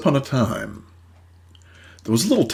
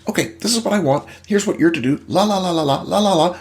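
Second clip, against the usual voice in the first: a hint of a brisk wife setting rules; imitating the wife; 5 semitones higher, faster than usual. Wife laying out boundaries to husband, mildly mocked. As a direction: rattle off demands lightly. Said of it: "the women lay out their boundaries".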